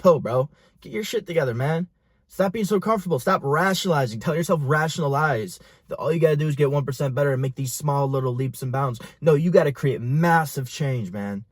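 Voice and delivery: tough love yell. Retold or imitated. An imagined mentor yelling at a comfortable young man to get moving. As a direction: play the coach who snaps you out of it. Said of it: "I needed someone to just yell at me and be like".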